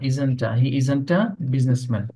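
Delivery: slow, drawn-out model sentence; teacher correcting slowly; slow correction. Shown as a demonstration. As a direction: stretch each word for the class. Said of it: "teacher corrects students' pronunciation".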